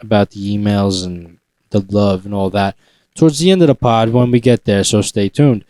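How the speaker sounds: smooth in-flight announcement voice; flight attendant. Real, not acted. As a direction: announce it like cabin crew. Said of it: "You just sounded like a flight attendant".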